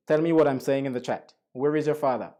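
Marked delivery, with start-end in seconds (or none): 1.5-2.3 light Jamaican-accented English. Shown as a demonstration. Teacher demonstrating sentences for students, Jamaican accent. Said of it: "let's practice the Jamaican accent".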